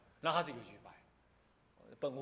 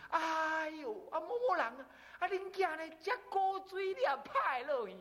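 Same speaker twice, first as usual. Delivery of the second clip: gossiping neighbour; 11 semitones higher than usual. Retold or imitated. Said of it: "我们隔壁就说".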